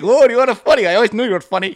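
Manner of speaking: high, loud, gushing mock accent; hammed-up coworker impression; Hassan. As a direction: imitate an excited friend praising the act. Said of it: "And Hassan going".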